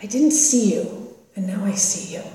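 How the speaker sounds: soft, tearful apology, slowing down; a gentle hint of crying through the words; quiet broken-down mother's apology. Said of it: "she just broke down into tears".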